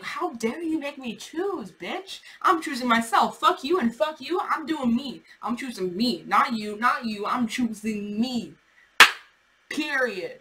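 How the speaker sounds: mock defiant rant. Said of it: "And it's just like".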